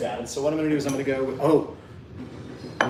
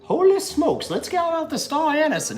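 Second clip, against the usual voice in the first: put-on Southern accent; 13 semitones higher than usual. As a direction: play a hammy Southern colonel. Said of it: "somebody who's from the South".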